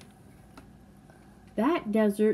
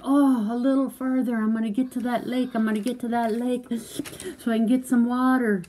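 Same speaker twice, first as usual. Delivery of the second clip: mock straining desert crawler; playacting desperate thirst; 4 semitones higher than usual. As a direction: pretend to push on toward water, worn out. Acts thirsty crawler nearing the lake.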